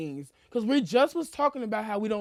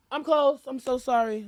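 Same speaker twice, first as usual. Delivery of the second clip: friendly apology; 3 semitones higher than usual. Shown as a demonstration. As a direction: model a polite cashier turning someone away. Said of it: "you coulda just been like".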